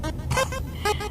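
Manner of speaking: high breathy laugh. Real, not acted. Laughing at own misery.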